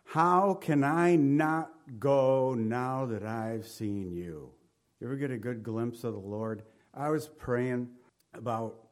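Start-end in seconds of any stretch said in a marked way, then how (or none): 0.0-4.5 slow sincere plea. Retold or imitated. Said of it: "How, listen".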